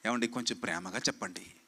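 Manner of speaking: parroting a congregant who begs him to preach lovingly, soft and pleading; mock pleading. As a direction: imitate a meek church member begging sweetly. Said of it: "కొంతమంది అంటారు".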